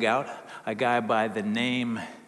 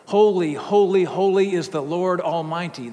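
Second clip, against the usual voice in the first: loud, raised proclamation of holiness; calling out in praise; 4 semitones higher, 7 dB louder than usual. A narrator's reading. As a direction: call it out high and strong, angel to angel. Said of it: "they were calling to one another".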